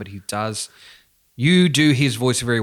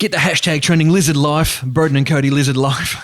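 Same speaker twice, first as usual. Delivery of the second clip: hype shout; 4 semitones higher, 8 dB louder than usual. Acted. Hyping a joke hashtag.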